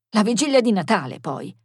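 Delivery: quick, irritated objection; hurried and put out; annoyed. Acted. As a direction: object with mild annoyance, dropping at the end. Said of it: "disse Bruno seccato".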